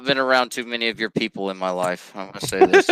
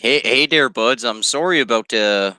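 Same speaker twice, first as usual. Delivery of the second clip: hammed-up friendly Canadian accent; mock Canadian accent. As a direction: apologize in an exaggerated Canadian accent. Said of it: "the worst Canadian accents".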